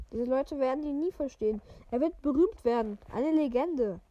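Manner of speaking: even, measured read-aloud voice; story narration. A narrator's reading. Podcaster reading a wizard novel to listeners, story narration.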